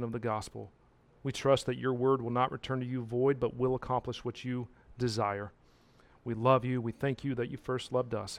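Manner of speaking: soft, hushed pastoral prayer; closing prayer. Acted. Pastor praying over his people, softly. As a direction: pray it quietly over the congregation.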